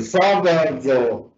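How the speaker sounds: sábado slowed, weight on "sá"; stress on first syllable. Shown as a demonstration. Teacher asks about a favourite word, sábado stressed on "sá". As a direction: lean slowly into "sá" of sábado. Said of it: "¿dónde está la sílaba tónica en la palabra".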